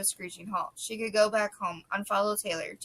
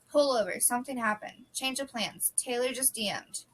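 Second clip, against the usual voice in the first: urgent, higher; 3 semitones higher than usual. Acted. Tessa urgent about new message.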